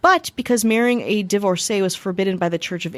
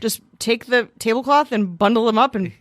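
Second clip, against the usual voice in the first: imitating the queen; 3 semitones higher than usual. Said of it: "She's like".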